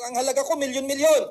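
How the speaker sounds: with conviction. Shown as a demonstration. Speaker demonstrating affirmation to audience, with conviction. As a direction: declare it with total conviction. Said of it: "With conviction, with feelings".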